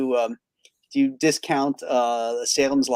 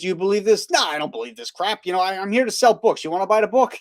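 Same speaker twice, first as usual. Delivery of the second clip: put-on Bronx-style New York accent, pitched up; 7 semitones higher than usual. Retelling what a bookstore guy from the Bronx said, in a New York accent. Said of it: "he's got the New York accent".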